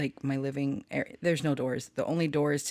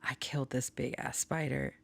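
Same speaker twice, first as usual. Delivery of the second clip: softer, half-whispered boast; softer telling the cousin about the spider; hushed; 2 semitones lower, 5 dB quieter than usual. Retold or imitated. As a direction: tell it like a secret. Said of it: "I was like".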